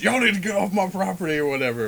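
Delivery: mock yelling. Telling a story about a kid's father, quoting him at the kids: retelling a father's yell. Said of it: "he's yelling at the kids".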